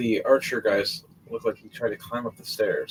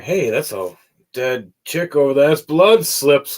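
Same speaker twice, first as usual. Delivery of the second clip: excited shout; 5 semitones higher, 8 dB louder than usual. Retold or imitated. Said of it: "Running, going".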